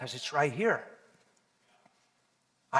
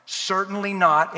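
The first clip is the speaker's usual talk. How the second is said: CERTAINLY NOT said slowly and firmly; emphatic; 4 semitones higher, 5 dB louder, slower than usual. Shown as a demonstration. Preacher reading Paul's answer to the congregation, emphatic. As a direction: drive home "Certainly not" with slow, weighty stress.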